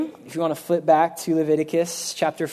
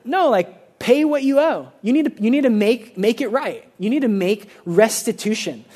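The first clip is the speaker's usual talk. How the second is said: firm rebuke; 4 semitones higher than usual. Real, not acted. Preacher rebuking a cheap apology, firm and raised. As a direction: insist they pay what they owe.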